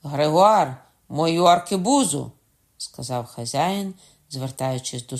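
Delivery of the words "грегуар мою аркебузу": calling out. A narrator's reading. Host calls to servant.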